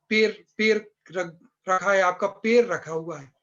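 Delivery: Bhopali "per" for "पैर"; imitated Bhopal accent on the vowels. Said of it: "आई की मात्रा और ए की मात्रा में भेद नहीं".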